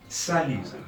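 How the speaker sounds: Salut said sa-LU, final T silent; French salut. Shown as a demonstration. Teacher to learners: Salut, silent T. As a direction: say Salut with no T at the end. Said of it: "The T at the end is silent".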